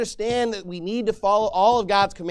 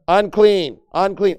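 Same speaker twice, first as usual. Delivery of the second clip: Unclean, unclean called out loud and falling; shouted warning; 11 dB louder, slower than usual. Shown as a demonstration. Pastor acting the leper crying out, loud. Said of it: "he's saying you literally need".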